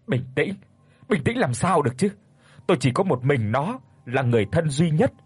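father confronts the men who hit his daughter, agitated; agitated outburst. Acted. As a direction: demand answers, growing accusing. Father refuses to calm down.

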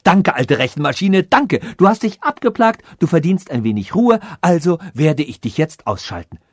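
lightly voiced grateful monarch, settling down from high excitement; a touch of royal delight; relieved, happy king. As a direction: gush thanks, then ease into a casual decision. Relieved king thanks the machine.

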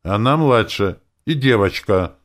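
slow, firm motherly reply; mother settling it strictly; sternly. A narrator's reading. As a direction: close the argument flatly. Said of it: "строго ответила Ольга Петровна".

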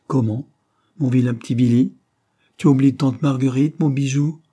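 cooing aunt. Acted. Aunt greeting her little nephew, excited and cooing. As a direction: scoop up the toddler, delighted.

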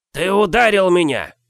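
a huge brute with an odd squeaky voice. Acted. Giant squeaks angrily at the boy who struck him. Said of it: "своим странным песклявым голосом".

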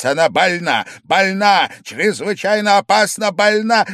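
loud, high, insistent shouting. A narrator's reading. Angry host keeps shouting about the sick girl. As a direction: hammer the word больна loudly.

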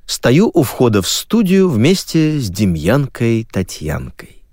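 ordinary delivery, nothing marked

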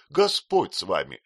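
loud shocked exclamation; exclaiming. A narrator's reading. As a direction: cry out in disbelief. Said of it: "воскликнула Пиготи".

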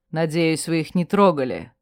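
cool, low and detached; cold. Acted. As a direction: say it coldly, keeping distance. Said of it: "холодно произнёс он". (холодно)

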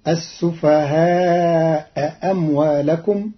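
السفهاء أموالكم with the first hamza dropped; السفهاء أموالكم joined smoothly with the hamza elided. Shown as a demonstration. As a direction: read السفهاء أموالكم as asufeha-mwalekum, no glottal stop. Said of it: "بحذف الهمزة الأولى".

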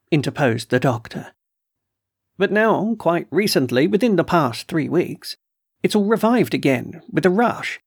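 a hint of a put-upon colonel, complaining; gruff colonel voice. Colonel complains to the doctor about trespassers, mildly indignant. Colonel continues his story.

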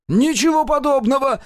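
very high, loud yell. A narrator's reading. Mosya yells at the colonel, very high and loud. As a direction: shriek the denial. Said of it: "завопил Мося".

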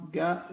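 "جا" with a hard g for qaf; Yemeni qaf. Shown as a demonstration. Teacher showing the only qaf Yemenis use, "جا" with hard g. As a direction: pronounce "جا" like the g in go. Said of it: "هم ينطقون فقط القاف".

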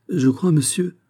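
high, faltering stammer. A narrator's reading. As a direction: stumble over it in shock. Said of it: "balbutia-t-elle".

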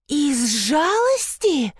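high, slow drawled "Из жалости?"; drawled offended echo. A narrator's reading. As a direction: draw it out menacingly. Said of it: "протянула она".

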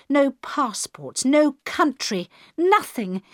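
rising fury until she is almost in tears; building to shouting. A narrator's reading. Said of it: "She was shouting now, and nearly crying".

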